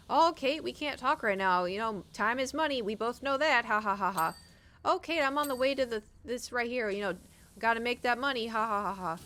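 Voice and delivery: lightly mocked salesy merchant with fake laugh; money-mad merchant. Merchant Baylor brushing Kate off to talk money, mock salesy. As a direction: hustle her like a pushy trader. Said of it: "All he fucking talks about is money".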